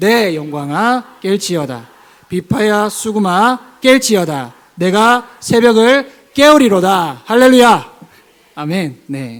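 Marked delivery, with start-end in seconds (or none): 0.0-7.2 booming, very loud, rousing read-aloud. Leading a second reading of a verse: reading loudly, as if waking someone. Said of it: "깨우는 것처럼 한 번 더 크게 읽겠습니다".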